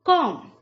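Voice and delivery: comb as kom; correct comb, silent b. Shown as a demonstration. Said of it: "right pronunciation है".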